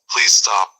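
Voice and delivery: whispered, irritated plea. Acted. Annoyed guy whispering to his tormentor to stop. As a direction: hiss it out, fed up. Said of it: "He is getting very irritated".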